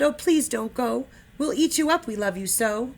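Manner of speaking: lightly voiced pleading wild things. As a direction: beg him to stay. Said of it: "the wild things cried".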